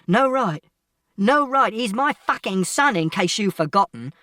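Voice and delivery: high, loud, incredulous father; explode, then drop a little in pitch; furious shout. A narrator's reading. Father claiming his son, shouting furiously. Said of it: "And Father shouted".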